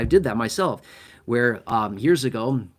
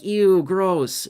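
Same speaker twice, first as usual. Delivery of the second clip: a grossed-out "Ew, gross", pitched higher and louder; mock disgust; 6 semitones higher, 4 dB louder than usual. Shown as a demonstration. Joking aside while explaining gross pay, mock disgust. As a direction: toss off a playful disgusted squeal. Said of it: "I'm not saying gross like".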